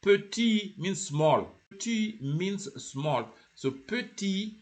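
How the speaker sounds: slow, deliberate "petit" with no T at the end; silent final T. Shown as a demonstration. Teacher explaining the isolated word, final T silent. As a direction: let "petit" stop on the vowel, final T unsounded. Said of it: "the T is not pronounced when it is isolated".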